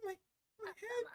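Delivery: high, soft cry of pain. Acted. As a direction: clutch your head and cry out. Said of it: "A sharp pain races through".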